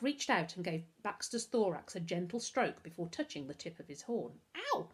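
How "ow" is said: high yelp at a prick; exclaiming. A narrator's reading. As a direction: cry out at a sudden jab. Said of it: "she exclaimed".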